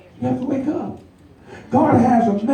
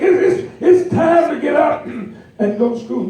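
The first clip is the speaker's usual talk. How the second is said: mock wake-up shout; 5 semitones higher than usual. Parent call repeated.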